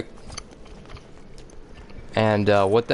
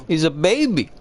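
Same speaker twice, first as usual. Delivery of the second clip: outraged disbelief; 8 semitones higher than usual. Real, not acted. Outraged repeat after choking.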